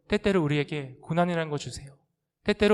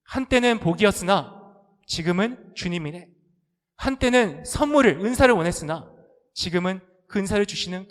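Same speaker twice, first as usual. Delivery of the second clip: solemn slow recitation; 3 dB louder than usual. Shown as a demonstration. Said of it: "원문을 보면 이렇게 되어 있습니다".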